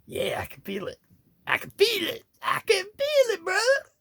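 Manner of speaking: soaring high, excited wrestler cry; hyped energy voice. Acted. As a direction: build to a hyped, high shout. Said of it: "I get this energy. It says".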